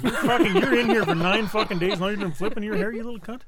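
mock angry scolding; retold irritation. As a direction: re-enact being pissed off at someone. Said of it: "It's pissing me off a bit".

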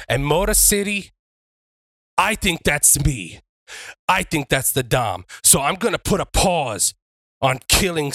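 deliberate ring promo with long pauses; wrestler's promo. Acted. Wrestler calls out Mitchy Richie before the crowd, promo delivery. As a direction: address the arena, phrase by phrase.

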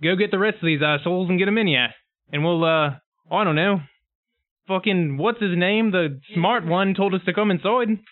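a hint of a chummy pig character giving orders; matey pig. Player pig sends another for the rest, lightly voiced matey bossiness.

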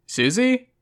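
high, questioning call; rising, mildly irked query; confused, slightly annoyed. A narrator's reading. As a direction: call the name out as a puzzled question. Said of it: "in the same confused, slightly annoyed tone".

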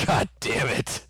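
quoting crying wife. Retold or imitated. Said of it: "She's like".

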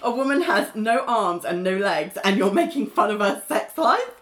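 mildly outraged, retold with amusement; offended. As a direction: imitate someone taking offence at a joke. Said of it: "really offended by the joke".

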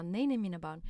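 mother's calm reply. Retold or imitated. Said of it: "men jag bara".

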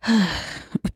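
short, high, soft huff of breath; brief put-on sigh; imitated huff. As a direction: imitate an exasperated exhale. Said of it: "And then she did, like, a".

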